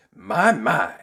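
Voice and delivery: gentle tramp. Acted. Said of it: "said the tramp gently".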